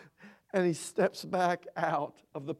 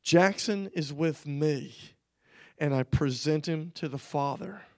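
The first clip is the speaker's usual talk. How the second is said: the Lord speaking; 3 semitones lower than usual. Retold or imitated. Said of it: "he said these words".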